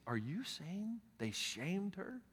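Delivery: hushed horror at the news; shocked translator. Retold or imitated. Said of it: "looked at me with shock".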